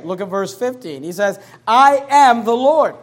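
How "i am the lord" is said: much louder, slow, drawn-out proclamation; preaching at full force. Acted. Preacher reading Isaiah to congregation, slow and loud. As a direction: ring it out like a pulpit declaration.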